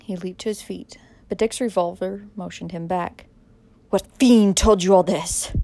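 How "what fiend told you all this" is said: loud, slow shaken gasp; villain gasping in horror at the tale; gasped hoarsely. Acted. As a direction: force it out, stunned and cornered. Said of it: "he gasped hoarsely".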